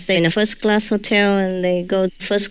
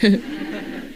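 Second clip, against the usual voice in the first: laugh; 6 dB quieter than usual. Real, not acted. Laughing at her bad English.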